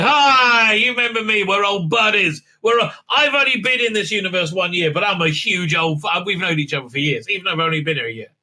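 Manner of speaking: hammed-up delight at seeing an old pal; overeager greeting. Mock greeting from supposed old buddy.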